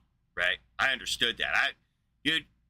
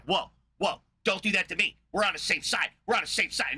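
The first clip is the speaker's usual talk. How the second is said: hammed-up panicked pleading, higher; mock alarm; 5 semitones higher than usual. Streamer imitates atheists begging him to stop, mock panic. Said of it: "They're like".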